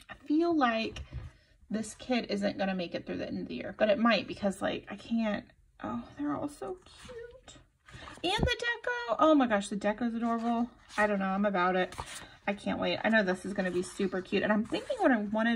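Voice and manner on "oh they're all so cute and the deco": breathy whisper of delight. Real, not acted. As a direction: whisper it, overcome by cuteness. Whispered gushing.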